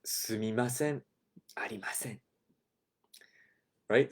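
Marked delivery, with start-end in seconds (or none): 0.0-2.2 apologetic clerk. Shown as a demonstration. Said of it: "The clerk says".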